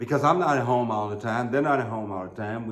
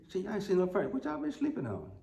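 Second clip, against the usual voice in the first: mock neighborly nosiness; 7 semitones higher, 7 dB quieter, faster than usual. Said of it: "trying to be neighborly".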